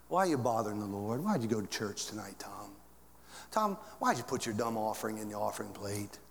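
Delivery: a low, soft taunting devil. Acted. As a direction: needle him quietly, like the devil whispering doubt. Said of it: "and the devil says".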